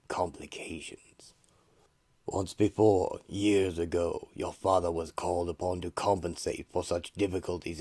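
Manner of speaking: eldritch voice. Acted. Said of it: "begins to speak to her in an eldritch voice".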